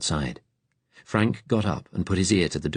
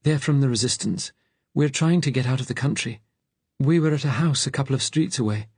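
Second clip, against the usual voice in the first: high-pitched, pleading fugitive; high voice of a hunted man; Frank; 9 semitones higher than usual. A narrator's reading.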